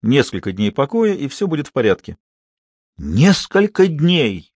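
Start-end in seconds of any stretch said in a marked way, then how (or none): 3.0-4.5 slow, dismayed outcry; a stunned cry; exclaiming. A narrator's reading. Binet hears the doctor's verdict, slow dismayed exclamation. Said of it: "воскликнул Бине".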